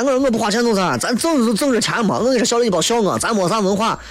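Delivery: high, brash bragging upstart voice; nouveau riche show-off. Retold or imitated. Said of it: "你看他张嘴说话，以没有文化为荣". (土豪暴发户的炫耀腔)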